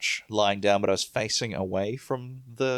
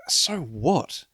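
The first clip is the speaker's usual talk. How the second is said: high, laughing mock complaint; laughing rant; 5 semitones higher than usual. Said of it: "I'm always kind of like".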